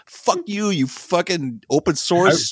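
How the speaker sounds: a hint of a furious online troll; mock angry tweeter. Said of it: "now it's like".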